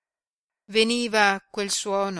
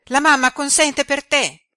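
much higher and louder, bursting with joy; jubilant girl; 9 semitones higher, 10 dB louder than usual. A narrator's reading. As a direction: announce it like a delighted young girl clapping her hands. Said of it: "entrando esultante ... battendo le mani".

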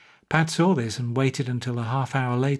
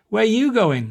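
loud, high doorman's challenge; demanding; 8 semitones higher, 5 dB louder than usual. Acted. Doorman grabs fleeing Pat by the lapels, loud demand. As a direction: stop him at the door, loud. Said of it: "he demanded".

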